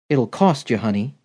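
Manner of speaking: low, husky film-siren purr; a hint of a sultry screen siren; Marlene Dietrich. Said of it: "her best imitation of Marlene Dietrich".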